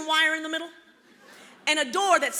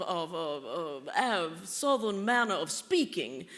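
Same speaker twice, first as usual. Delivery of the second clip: Southern lady drawl; 6 semitones lower, 3 dB quieter, slower than usual. Shown as a demonstration. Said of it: "Do you, do you hear it? There's a lot of air in my mouth".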